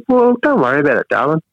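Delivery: a hint of a doting nan soothing him; nana's voice. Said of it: "Well, she said".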